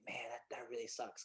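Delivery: low, very soft retold letdown; quiet, deflated inner voice; deep-down disappointment. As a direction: murmur it to yourself, let down. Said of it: "deep down, like, when I heard that".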